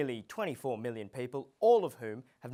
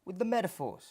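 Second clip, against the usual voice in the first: much higher, louder cut-off; exasperated snap; 8 semitones higher, 3 dB louder than usual. Acted. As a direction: shut them down sharply. Host cutting off guest.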